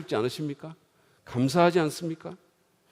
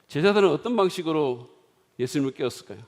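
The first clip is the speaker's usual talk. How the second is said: ordinary talk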